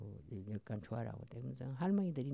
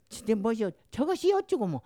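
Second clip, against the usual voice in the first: mock Jeolla dialect; 5 semitones higher, 5 dB louder than usual. Grandma mimics her dialect to grandkids.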